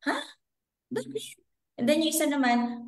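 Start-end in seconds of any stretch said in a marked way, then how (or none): 0.1-1.4 sudden high-pitched "Ha? Bakit?"; shocked disbelief. Retold or imitated. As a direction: jump high, caught off guard. Shocked reaction to failed exam.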